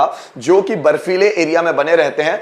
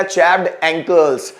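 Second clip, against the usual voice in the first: slow repeat; slower than usual. Shown as a demonstration. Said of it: "और फटी हुई एड़िया".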